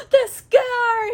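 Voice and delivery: high, loud mock-nurse exclamation; hammed-up squeal of discovery; happy shocked recognition. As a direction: gasp it out in amazed recognition. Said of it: "she's, like, very happy about it".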